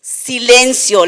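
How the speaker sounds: Jesus commanding the sea to be silent; voice of authority. Retold or imitated. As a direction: order the wind to hush. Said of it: "con voz de autoridad".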